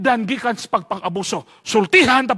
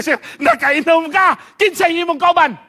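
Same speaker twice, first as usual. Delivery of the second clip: stern interrogation; 9 semitones higher, 7 dB louder than usual. Retold or imitated. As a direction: grill the student like a strict teacher. Strict teacher interrogating student. (estrikto nga maestro nga nangutana)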